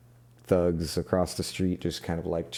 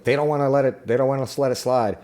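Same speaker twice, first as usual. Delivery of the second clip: mild acted jitters, pitched up at first; nervous; 4 semitones higher, faster than usual. Fixer fretting they won't let it slide, nervous. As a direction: lightly play a worried fixer. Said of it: "he starts getting nervous".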